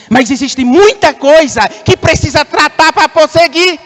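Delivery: pregação enfática. Real, not acted. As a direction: press the point on the congregation. Prega com força. (pregação firme, voz elevada)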